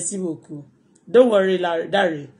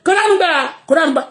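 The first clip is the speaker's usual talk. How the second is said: mock outraged cry; 6 semitones higher, much faster than usual. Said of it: "Wọ́n dẹ̀ máa sọ".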